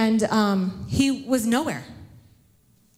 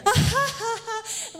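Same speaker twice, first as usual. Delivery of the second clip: mock high-pitched movie laugh, dragged out; exaggerated laugh as if the film slowed down; slow-motion laughing; 12 semitones higher, slower than usual. Crowd in slow motion around a panicking mother, mock laughing. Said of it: "like, laughing, and everything's kinda spinning, and it's slow motion".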